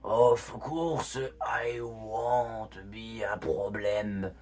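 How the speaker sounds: lightly voiced old man, slow; a hint of an old man, slow. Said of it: "je lui fais un, une vieille voix".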